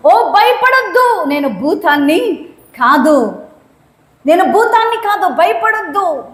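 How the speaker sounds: Jesus calling out to calm the fearful; mild acted call of Jesus; voicing Jesus. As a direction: reassure across the waves. Jesus voiced calming Peter.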